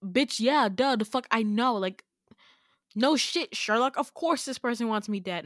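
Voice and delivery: retold "well, obviously" retort; punchy, exasperated sarcasm; sarcastic. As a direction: act out scoffing at the obvious. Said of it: "I look at him like".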